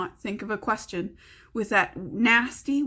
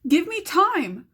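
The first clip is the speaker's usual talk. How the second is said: slow pleading shout; 7 semitones higher, 4 dB louder, slower than usual. Acted. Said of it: "He wanted to shout".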